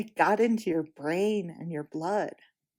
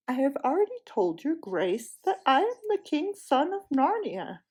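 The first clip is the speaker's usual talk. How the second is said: a touch of stern royal dignity; 5 semitones higher than usual. Acted. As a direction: correct her with firm pride. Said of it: "said the prince sternly".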